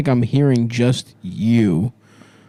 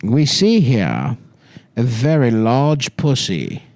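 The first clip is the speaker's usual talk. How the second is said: nature documentary narrator; slower than usual. Acted. Attenborough-style nature narration.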